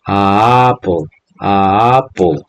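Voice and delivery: "A apple" slowly, the A stretched out; wrong version. Shown as a demonstration. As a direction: lay out the vowel clash slowly.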